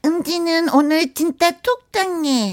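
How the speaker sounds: slow, lightly lisped cutesy voice; a hint of baby talk; lisping baby talk. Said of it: "혀 짧은 소리". (살짝 혀 짧은 애교 말투)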